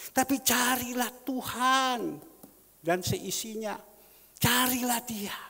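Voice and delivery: slow, high, loud exhortation; seruan khotbah. Real, not acted. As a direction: urge the congregation, stretching the words out. Preacher urging congregation to seek God. (seruan lantang, lambat dan tinggi)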